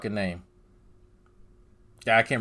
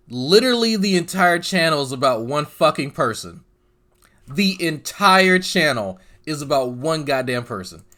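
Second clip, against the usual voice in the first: exasperated rant; 2 semitones higher, 5 dB louder than usual. Real, not acted. Ranting at channel's single focus.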